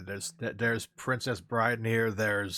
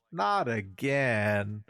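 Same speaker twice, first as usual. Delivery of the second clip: aside to camera; much slower than usual. Acted. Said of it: "a look to the camera like".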